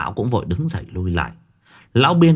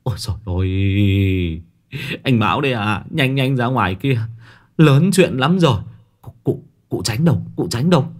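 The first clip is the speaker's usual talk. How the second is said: panicked. Acted. Young man panicking at the gate.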